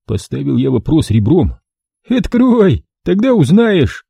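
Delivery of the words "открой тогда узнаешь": high, louder puppet-theatre singsong; sing-song puppet-show voice. A narrator's reading. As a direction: sing it like a fairy-tale puppet villain. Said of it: "Как в кукольной сказке пропел он".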